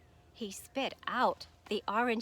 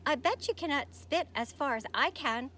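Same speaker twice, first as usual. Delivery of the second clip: called out, louder, teasing; calling out; 5 semitones higher, 4 dB louder than usual. Acted. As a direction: shout a dare from under a leaf. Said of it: "called the frog".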